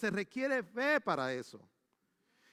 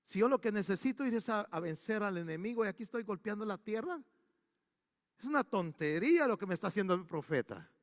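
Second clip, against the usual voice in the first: inner thought; 5 dB quieter than usual. Retold or imitated. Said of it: "se detuvo porque pensó".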